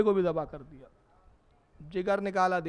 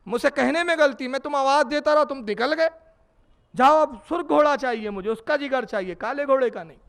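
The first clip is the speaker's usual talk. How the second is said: flustered physician; 6 semitones higher, 4 dB louder than usual. Acted. Physician flustered, corrects his order.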